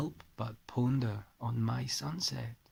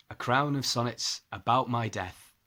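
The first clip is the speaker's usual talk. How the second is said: put-on poem read in a light Scottish accent; 5 dB louder than usual. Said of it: "excuse the Scottish accent".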